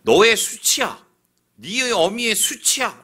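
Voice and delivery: loud, slow, high accusing cry; angry father's rebuke. Retold or imitated. King Saul shouting at Jonathan, slow and loud. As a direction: hurl the insult at his son slowly. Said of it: "라고 얘기합니다".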